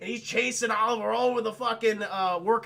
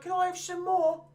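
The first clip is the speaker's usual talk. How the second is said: high, lifeless orphan line; flat bad delivery; 10 semitones higher than usual. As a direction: read the famous line badly, like an actor who can't sell it. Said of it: "this kid can't deliver it for shit".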